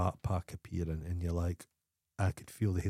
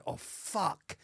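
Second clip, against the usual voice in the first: higher, hushed muttered curse; quiet mock dismay; 8 semitones higher, 7 dB quieter than usual. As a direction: curse under your breath, mimicking dread. Imitating dismayed tourists spotting compatriots.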